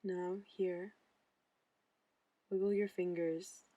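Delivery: calm meditation guide, long pauses between phrases; unhurried, even delivery, leaving room to breathe; guided meditation. Acted. Mindfulness intern guiding listeners through breathing and body relaxation, guided meditation.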